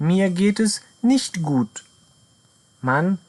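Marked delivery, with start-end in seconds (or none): 0.1-1.8 slow model sentence. Shown as a demonstration. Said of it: "teacher models the full sentence".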